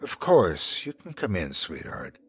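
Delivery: tender coo, falling away softly. A narrator's reading. Woman welcomes a hurt little girl inside, cooing. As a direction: coo it to a frightened child. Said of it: "she cooed as she lifted".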